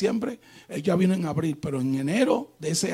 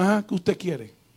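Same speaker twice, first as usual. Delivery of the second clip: acted curt question; mildly stern brush-off. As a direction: ask it brusquely, keeping them at a distance. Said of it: "tenía que hablarle así".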